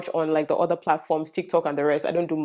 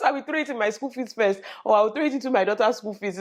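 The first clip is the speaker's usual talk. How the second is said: ordinary talk, nothing marked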